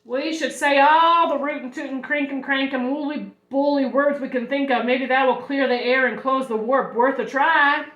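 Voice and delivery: a hint of a brisk nurse; nurse proposing a plan. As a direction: pitch the plan with some gusto.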